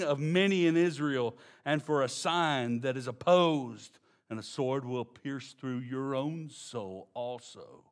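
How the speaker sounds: solemn scripture read. Acted. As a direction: read the verse with weight. Reads scripture verse aloud.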